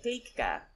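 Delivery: GLEEKKA as two syllables, "GLEEK-uh"; careful pronunciation. Shown as a demonstration. Co-host repeating the word after spelling it, carefully pronounced. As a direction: repeat Gleekka clearly, long ee first. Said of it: "So how did you say it again?".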